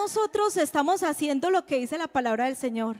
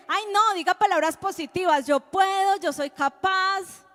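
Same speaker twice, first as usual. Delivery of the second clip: mocking positivity; 3 semitones higher than usual. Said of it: "la neurociencia, ¿qué dice?".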